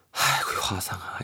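breathy sighing groan, mock despair; deep sigh. Mom sighing at the report card, whispered and despairing. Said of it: "이렇게 좀 깊게 한숨만 쉬시더라고".

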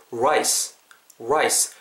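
"rice" from puckered lips, English r; rounded r. Shown as a demonstration. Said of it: "입술 이렇게 뽀뽀하듯이 둥글게". ("rice"를 입술을 말고 '(우)라이스'로)

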